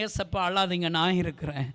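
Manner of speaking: soft, low, intimate; tender whisper to Jesus. Retold or imitated. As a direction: comfort him quietly. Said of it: "நான் அப்பாவை பார்த்து சொன்னேன்".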